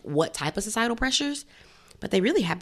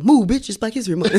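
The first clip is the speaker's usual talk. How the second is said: mock shout; 5 semitones higher, 8 dB louder than usual. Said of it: "you hear some guy go".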